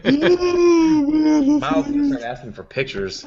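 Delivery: words squeezed out through laughter; laughing. Real, not acted. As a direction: laugh while teasing, voice up high. Teasing a friend, laughing.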